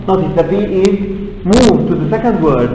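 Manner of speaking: ordinary delivery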